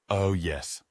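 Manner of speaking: mild, half-hearted agreement; dully. Acted. Mike answers Jasmine about cold fusion, bored and dull. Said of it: "I replied dully".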